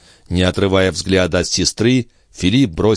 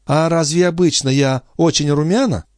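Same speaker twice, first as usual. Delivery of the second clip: put-on lightly raised voice of a young woman, brushing it off; young sister making light of her illness; sister's voice; 9 semitones higher than usual. A narrator's reading. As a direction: play it down, a bit higher.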